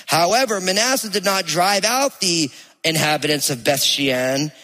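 measured, solemn Bible reading; scripture reading. Acted. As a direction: read it aloud like scripture. Reads scripture passage aloud.

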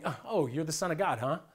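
a hint of a mocking challenge; sneering devil. Devil taunting Jesus in the desert, lightly sneering. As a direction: say it like you doubt him to his face. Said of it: "He was saying".

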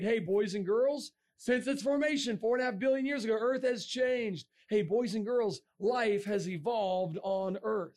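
lightly voiced teacher addressing a class, drawn out; second-grade teacher. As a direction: slowly spell it out for little kids, mildly mocking. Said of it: "you tell them the same thing in second grade".

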